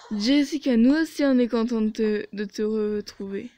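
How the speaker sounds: fake-friendly greeting, loud and sarcastic; sarcastic sweetness. Narrator greets her rival with fake sweetness, sarcastic. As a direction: greet her with mock warmth.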